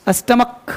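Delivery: स्टमक ending in a hard k; correct pronunciation. Shown as a demonstration. Teacher telling students: स्टमक ends in k. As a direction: say स्टमक with a k, not ch. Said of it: "स्टमच नहीं पढ़ते".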